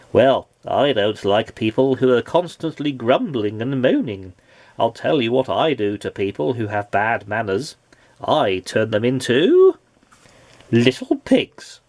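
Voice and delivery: a hint of a stern wizard, slowing on the threat; lightly voiced wizard. Wizard warns the grumbler, in a lightly voiced stern tone. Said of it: "said the wizard".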